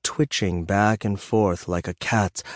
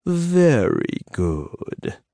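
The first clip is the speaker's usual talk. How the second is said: Bob praising the little dragon, proud and slow; slow, pleased praise for a good pet; 7 semitones higher, much slower than usual. A narrator's reading. Bob praising his hatchling, slowly and proudly. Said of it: "Bob said proudly".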